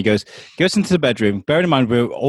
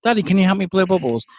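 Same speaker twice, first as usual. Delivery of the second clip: put-on higher, pestering kid voice; pleading child; 6 semitones higher, faster than usual. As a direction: nag for attention like a child. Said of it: "all I could hear was".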